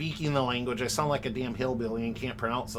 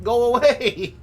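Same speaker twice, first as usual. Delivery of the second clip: annoyed yell; 9 semitones higher, 9 dB louder, slower than usual. Real, not acted. Fence stuck to his feet.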